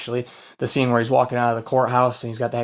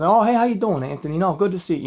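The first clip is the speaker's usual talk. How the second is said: put-on loose Brooklyn mob-guy accent, starts much higher; mock Brooklyn mobster; 6 semitones higher than usual. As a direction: greet him like a Brooklyn wiseguy, lightly hammed. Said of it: "talking like they're, you know, from Brooklyn".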